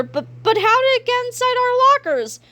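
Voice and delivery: high, stammering puzzlement; baffled bully. A narrator's reading. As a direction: ask it dumbfounded. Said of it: "said Kipper".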